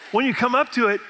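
laughing through the words; giggling as he says it. Real, not acted. Pastor laughing at his own Plymouth Rock story.

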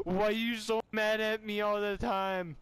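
high, hammed-up plaintive outburst; drunken complaint. Drunk asking friend about being mad, high plaintive cry. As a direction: whine it high like an upset drunk.

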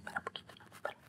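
very soft, hushed aside; aparte al niño. Acted. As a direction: quickly hush a child under your breath. Aside to the interrupting child. (aparte al niño, en voz muy baja)

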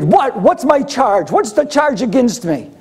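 high-pitched acted demand; crying out. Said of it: "he's crying out".

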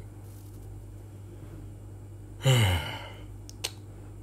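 long, breathy, tired sigh; long weary sigh. Acted. A long tired sigh over the crying girlfriend. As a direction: let all the frustration out in one breath.

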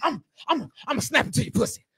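lightly voiced angry wrestler; mock wrestling catchphrase in broken bursts; Macho Man Randy Savage. Host mocking the storyteller, mock wrestler. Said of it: "you sound like when Macho Man Randy Savage".

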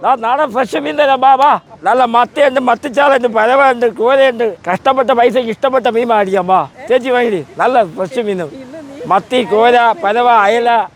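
sharp piercing fish seller. Real, not acted. Fish seller calling to buyers.

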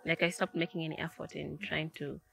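soft whispered aside; whispering. Real, not acted. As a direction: drop to a whisper. Unvoiced whisper measured.

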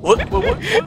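high surprised. Real, not acted. Surprised at game event.

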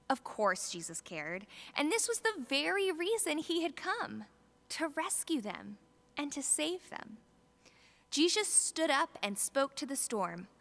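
put-on expressive children's story narration; storybook reading. Reading the Bible story to the families' children, lively storyteller. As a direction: read it to the kids like a storybook.

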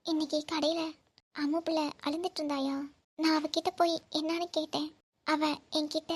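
upset mother recounting through tears; halting, weepy telling with pauses; tearful. Acted. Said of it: "அம்மா, first அழுகாத".

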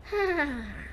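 soft, short plotting laugh; sly laugh. Acted. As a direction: chuckle quietly over the next prank. Boy plots another prank.

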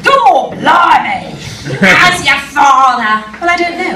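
playful Cockney put-on for the audience; Cockney demo. Shown as a demonstration. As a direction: show them a cheeky Cockney accent. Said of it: "I'm going to demonstrate".

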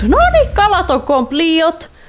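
high giddy announcement; excited cheer. Real, not acted. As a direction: squeal it out in delight. Fish research finished.

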